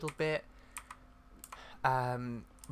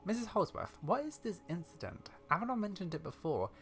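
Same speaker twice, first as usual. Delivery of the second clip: lightly acted, inquisitive questioning; young adventurer character; 4 semitones higher, 5 dB quieter than usual. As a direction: press the old lady for answers.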